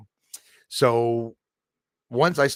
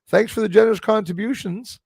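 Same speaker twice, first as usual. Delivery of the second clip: grateful; 10 semitones higher, 5 dB louder than usual. Real, not acted. Thanking donor.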